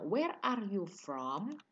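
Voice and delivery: drawn-out words for learners; slow model question. Shown as a demonstration. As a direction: ask it slowly, as a classroom example. Teacher models example question.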